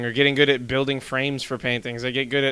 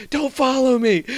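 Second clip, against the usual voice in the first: mock wounded warning; 12 semitones higher, 5 dB louder, slower than usual. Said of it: "he says".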